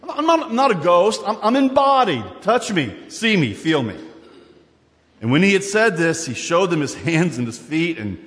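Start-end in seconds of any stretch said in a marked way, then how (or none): 0.0-4.0 lightly voiced Jesus, rising and insistent; Jesus pleading to be touched and seen; voicing Jesus. Jesus tells disciples he is embodied, lightly voiced. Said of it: "the point that Jesus is making".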